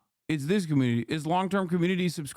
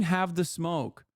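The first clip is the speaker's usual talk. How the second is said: mocking repeat; slower than usual. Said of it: "The fuck do you mean".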